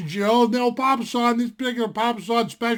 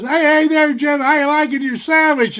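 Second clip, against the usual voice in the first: higher, louder sly teasing question; a buddy teasing him about what he's eating, higher and louder; 4 semitones higher, 4 dB louder than usual. Retold or imitated. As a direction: needle him with a grin in the voice.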